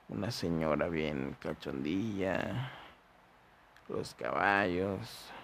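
drowsy, slow half-asleep words; barely awake, words dragging; nodding off. Real, not acted. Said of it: "Ya me estoy quedando dormido".

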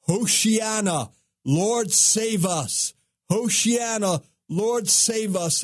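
high, slow festival cry to God. Retold or imitated. Worshippers at the feast pleading with God, high drawn-out cry. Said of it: "people shouting and crying out".

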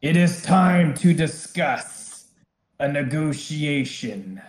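slow, commanding dragon voice; booming voice. Acted. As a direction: speak like a dragon over the battlefield. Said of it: "suddenly you hear a booming voice".

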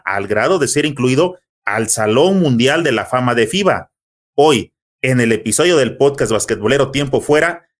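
measured, emphatic host introduction; podcast announcer intro. Acted. Host presenting a basketball legend to listeners, announcer style. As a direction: build up the guest like an announcer.

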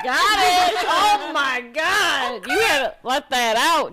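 hammed-up outrage, slowing on oh my God; mock shocked yell. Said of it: "and I'm like".

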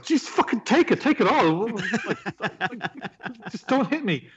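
high, panicked, laughing plea; hammed-up scared begging; mock terrified pleading. Mistakes greeting for mugging.

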